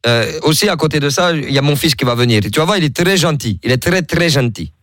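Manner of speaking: put-on invented African accent. Prank caller telling Coralie his new wife comes, in a mock Senegalese accent. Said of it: "j'ai inventé un accent".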